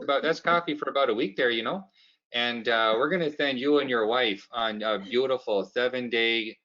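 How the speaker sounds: folksy Canadian boss, a hint of Canadian accent; light Canadian accent, cheerful. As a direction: play a cheap, friendly Canadian boss. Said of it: "switch over to the Canadian side".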